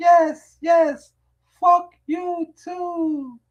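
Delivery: put-on very high, very slow tipsy drawl. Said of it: "I was twisted".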